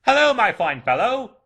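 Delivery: high, loud, hearty hail; calling down. A narrator's reading. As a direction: call out gleefully to a boy below. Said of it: "calling downward to a boy".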